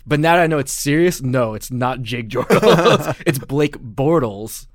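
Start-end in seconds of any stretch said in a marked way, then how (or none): 1.2-4.7 laughing slowly through the name; laughing correction. Real, not acted.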